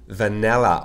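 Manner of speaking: "Vanilla" with its short i almost like French é; teacher's careful "Vanilla", first i leaning toward é; pronunciation demo. Shown as a demonstration. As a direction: model "Vanilla" clearly, the short i close to an é. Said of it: "Regardez comment on prononce vanille".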